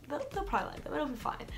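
high, airy self-reassurance; breezy shrug. Retold or imitated. Teen quoting her own thought about the gifts, high and breezy. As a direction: toss it off lightly, sure it'll be fine. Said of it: "so I was like".

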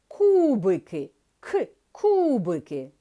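кубики said slowly and drawn out, first sound clear; sounded-out word. Shown as a demonstration. Teacher to pupils, slowly sounding out the word. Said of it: "Звук К".

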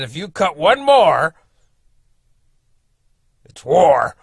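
slow, loud start that drops to a whispered war; retelling the neighbour's threat with a hushed ending; menacing threat. Retold or imitated. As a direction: build the threat and then whisper the word war. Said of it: "that's what he said".

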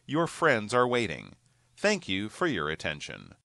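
public announcement. Acted. Paging a passenger.

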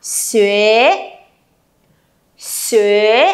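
"Xuế" drawn out with a low rising tone; slow teacher's "Xuế" for repeating; read-along word model. Shown as a demonstration. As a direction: say "Xuế" as shü-eh, lifting at the end. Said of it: "Cùng đọc với cô Trang nào".

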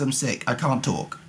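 normal talking voice

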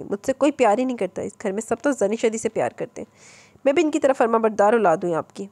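loud sulky complaint while leaving. Acted. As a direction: raise the voice so mother hears. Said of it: "काफ़ी ऊंची आवाज़ में बोली".

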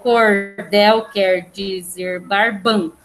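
"cordel quer dizer barbão" slowly, syllable by syllable, stopping on stressed "bão"; counting out syllables. Shown as a demonstration. Teacher shows class where the count stops, syllable by syllable. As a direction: measure out each syllable slowly and evenly. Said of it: "eu tenho que contar essa quantidade".

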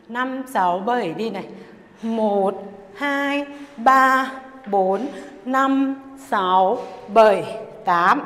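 punchy dance-class beat count. Acted. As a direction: call the beats out to the music.

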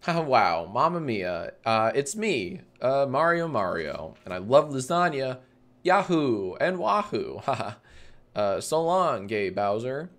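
lightly voiced, casual take on Mario; a hint of a movie-star Mario impression; Chris Pratt as Mario. Streamer imagining the upcoming Mario movie, lightly voiced actor impression. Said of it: "Chris Pratt impression? I can do a pretty good".

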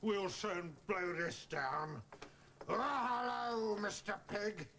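wolf villain. Acted. Puppeteer plays the wolf.

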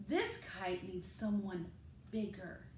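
a hint of a big grown-up explaining; dad's voice. Creatures explain.

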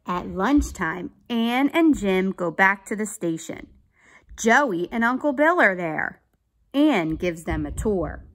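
put-on clear, emphatic children's story narration; read-aloud story. A narrator's reading. Teacher reading a police story to children, animated narration. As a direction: read it out carefully for young listeners. Reads a picture book aloud.

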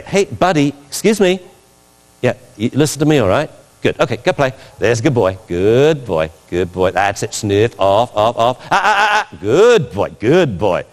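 playing the trainer with a dog; coaxing praise, then sharp offs; mock dog praise. Shown as a demonstration. Trainer demonstrating to his dog, coaxing then firm. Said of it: "And I say".

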